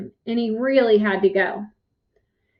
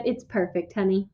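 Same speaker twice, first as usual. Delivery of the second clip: low, soft father's voice; quiet, agreeable husband; smiling reply; 4 semitones lower, 6 dB quieter than usual. A narrator's reading. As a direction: answer gently, dropping low. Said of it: "smiled back and said".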